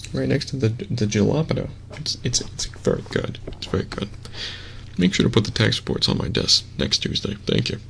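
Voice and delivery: soft, lightly put-on white guy voice; understated stereotypical white dude; basic white dude. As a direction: do a mild office white dude parody. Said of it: "the basic white dude voice".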